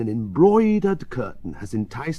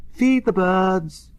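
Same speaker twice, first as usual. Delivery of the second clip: drawn-out, higher benevolent call; 7 semitones higher, 4 dB louder, slower than usual. A narrator's reading. Bird woman selling crumbs to passers-by, benevolent. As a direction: call it out slowly and kindly. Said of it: "she says benevolently".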